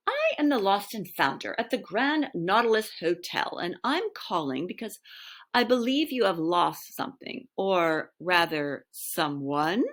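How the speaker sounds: put-on mild posh English accent, measured; lightly posh English, trying to sound important. Herbie telling the museum they lost someone, lightly posh English. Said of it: "putting on the posh voice".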